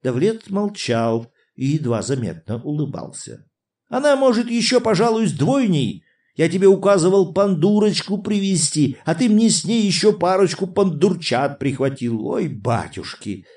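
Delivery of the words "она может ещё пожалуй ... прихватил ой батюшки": весёлое возбуждение. A narrator's reading. Князь потешается над Давлетом.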